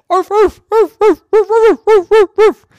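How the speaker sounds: loud, high yappy arfs; dogs barking. Acted. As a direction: yap like a pack of excited little dogs. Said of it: "They said".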